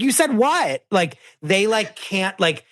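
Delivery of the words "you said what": high incredulous echo; incredulous mock. Husband echoing his wife, high mock disbelief. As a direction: squeak it out in disbelief. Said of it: "And he's like".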